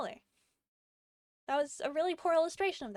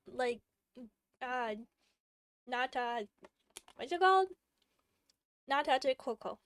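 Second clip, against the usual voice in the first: chewing while talking. Real, not acted. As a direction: mouth full of jelly. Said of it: "Sorry, I'm chewing on".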